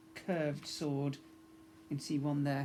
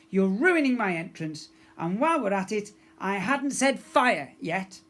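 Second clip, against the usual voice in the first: scolding; 5 semitones higher, 7 dB louder than usual. A narrator's reading. Pirate girl scolding her mate for spoiling her entrance. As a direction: tell him off, dragging the last words.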